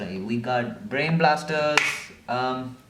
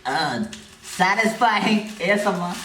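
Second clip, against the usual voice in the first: mock ASMR voice; 4 semitones higher than usual. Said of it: "I'll just look away and say".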